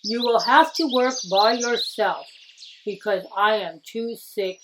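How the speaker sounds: a hint of a frail old craftsman; lightly voiced old master. Old master advising young Tokuzo, lightly voiced sick old man.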